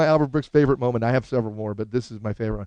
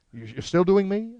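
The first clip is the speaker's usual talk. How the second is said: slow, high, halting question; pitched-up comic impression; Albert Brooks; 5 semitones higher, slower than usual. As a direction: ask doubtfully in his voice. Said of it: "I actually do an impression of him".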